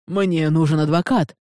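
a loud indignant shout. Acted. Dragged-off scholar demanding a lawyer, loud shout. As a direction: yell after your captors. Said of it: "прокричал Никлайс".

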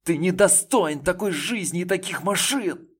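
loud, high angry yell; furious shout. A narrator's reading. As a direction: hurl it at him. Continues screaming at him.

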